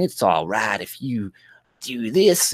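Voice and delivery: lightly mimicked fake Black accent; mock Black American accent. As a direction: imitate her attempt at a Black accent, lifting at the end. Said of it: "trying to do a black accent".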